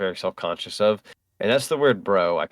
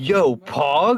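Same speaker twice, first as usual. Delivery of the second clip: loud, pitched-up, deliberately annoying voice; 7 semitones higher, 5 dB louder than usual. Speaker shows how they say a word jokingly, in a deliberately annoying tone. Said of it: "to sound annoying on purpose".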